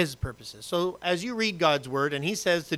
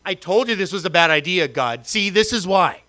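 louder grumbling at God; mock complaint; 6 dB louder than usual. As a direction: whine at God in jest.

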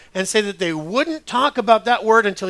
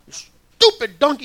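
slow, high, loud frustrated yell; yelling at donkey; 8 semitones higher, 7 dB louder, slower than usual. Retold or imitated. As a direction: bark it at a stubborn animal. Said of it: "he's yelling at his computer".

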